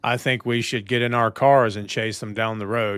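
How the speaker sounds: low, flat stiff movie voice; deadpan it like a wooden action hero; Stallone impression. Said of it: "He's like".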